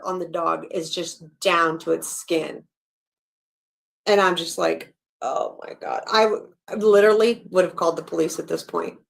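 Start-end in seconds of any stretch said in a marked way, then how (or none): 5.2-6.0 breathless whispered oh my God; retold horrified whisper; shocked whisper. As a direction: whisper it, stunned by what you see. Her own shocked reaction retold.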